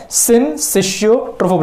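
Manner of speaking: syncytiotrophoblast said slowly as sin-SISH-yo-trophoblast; proper pronunciation. Shown as a demonstration. Teacher showing students the proper way, syncytiotrophoblast as sin-sishio, slow and careful. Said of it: "बराबर से pronounce करना है".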